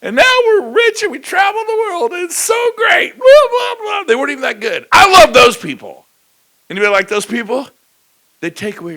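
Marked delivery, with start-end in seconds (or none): 0.0-4.0 high, hammed-up boast trailing into blah blah; mock rich couple. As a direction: gush mockingly about being rich. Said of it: "Bill is like".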